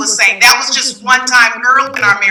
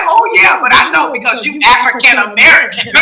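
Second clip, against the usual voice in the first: mock husband voice. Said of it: "he was saying to me".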